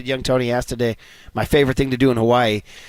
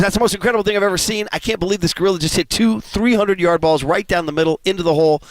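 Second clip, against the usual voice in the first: amazed golfer; 4 semitones higher than usual. Retold or imitated. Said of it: "The guy goes".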